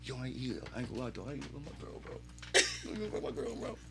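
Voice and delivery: very soft, barely voiced confession; hushed, choked-up mock gushing; overcome with happiness. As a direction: imitate a man too moved to speak up. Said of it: "He was so ha-, yo, happy".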